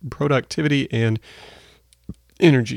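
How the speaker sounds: talking around a sip of tea; words half-caught by a sip; while sipping tea. Real, not acted. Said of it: "excuse me. I'm drinking this tea".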